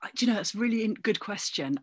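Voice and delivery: whispered, half to herself; buy time in a hushed whisper; a breathy aside while thinking; thinking-aloud whisper. Real, not acted. Musing aloud before answering.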